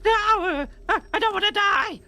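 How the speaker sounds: very high, loud goblin panic; terrified goblin. Acted. A dangling goblin begging not to die. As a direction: plead for life while dangling.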